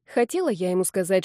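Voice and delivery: plain reading voice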